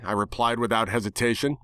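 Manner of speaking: ordinary delivery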